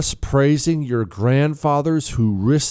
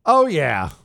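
normal talking voice

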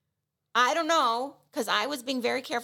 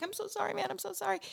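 sheepish apology; 10 semitones higher, 8 dB quieter, faster than usual. Retold or imitated. Apologizing to the busboy.

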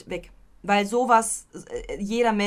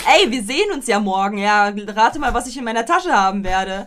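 playful threat; 9 dB louder than usual. Pretend.

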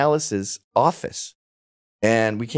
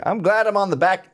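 higher-pitched, put-on Southern accent; 6 semitones higher than usual. Old club member on his late years, high Southern accent. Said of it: "I'm doing a Southern accent".

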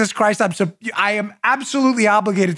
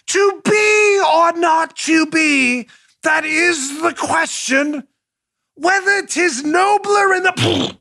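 much higher, slow, declaimed stage actor shout; hammed-up Shakespeare; 9 semitones higher, much slower than usual. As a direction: play a pompous stage Hamlet. Hamming Hamlet in the street.

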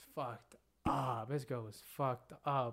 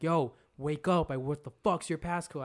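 retold anger; 2 semitones higher, 5 dB louder than usual. Boy tries waking a passed-out girl, mildly angry. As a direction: imitate losing patience, pressing each word. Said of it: "I was angry".

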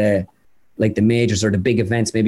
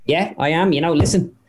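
imitated Irish golfer, pitch climbing toward the punchline; Padraig Harrington; 3 semitones higher than usual. Impressionist answering German TV as a golfer, imitated, rising higher. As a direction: play the earnest golfer sizing up rivals. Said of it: "So then it goes to Harrington".

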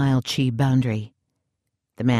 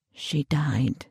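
softer, a quiet admission; softly; 6 dB quieter than usual. A narrator's reading. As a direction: let the words fall gently. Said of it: "he said softly".

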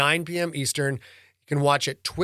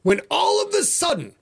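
dramatic exclaim; 14 semitones higher than usual. A narrator's reading. Dramatic horror build.

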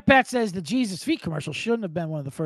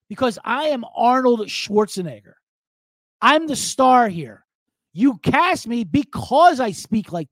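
put-on indignant Austrian accent, raised and loud; Schwarzenegger; 6 semitones higher, 5 dB louder than usual. Arnold berating the director who corrected him, indignant Austrian accent. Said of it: "making fun of his accent".

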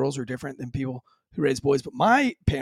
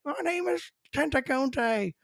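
slow, higher, strained captive voice; mock Roots captive; 10 semitones higher, 5 dB quieter, slower than usual. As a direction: ham up the defiant name. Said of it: "he was screaming".

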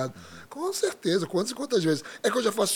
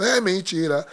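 bronca encenada, ainda contida; bronca do pai imitada; 2 semitones higher, 4 dB louder, much slower than usual. Retold or imitated. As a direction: imite um pai começando a reclamar. Pai reclama do baixista, primeira vez. (reclamação imitada, sem gritar)

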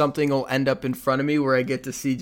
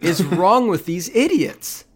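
outraged fan rant; 4 semitones higher, 3 dB louder than usual. Retold or imitated. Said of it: "my impression of a Cincinnati football fan".

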